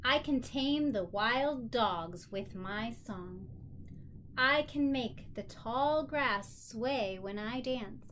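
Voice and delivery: put-on slow, expressive read-aloud to a child; storybook reading. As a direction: let each line land slowly, as the proud princess. Reads picture book aloud.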